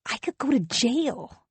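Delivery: a touch of a wail on the last words; mild wail. Acted. Husband pleads with his wife, mild wail. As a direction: let the line rise into a half wail. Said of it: "He says this last bit with a wail almost".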